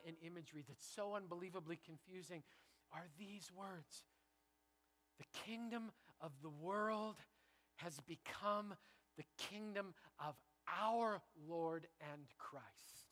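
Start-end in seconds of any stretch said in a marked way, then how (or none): 5.2-13.1 slow, hushed, reverent reading of scripture; slow solemn reading. Shown as a demonstration. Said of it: "Let me read it again".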